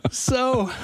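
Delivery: breaking up with laughter, slowing down; laughing through words. Real, not acted. Comedian tickled by a silly word, helplessly laughing. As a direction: crack up halfway through the sentence.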